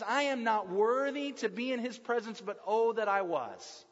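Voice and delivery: mild longing voice of Peter. Acted. Peter longing to stay near Jesus, understated yearning. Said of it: "hear the longing in Peter's voice".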